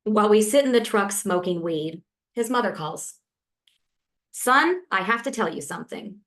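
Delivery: measured, deliberate poem reading with pauses between lines; unhurried spoken-word reading; poetry reading. Acted. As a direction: read it like a poet at a reading, letting each image land. Reads second poem aloud.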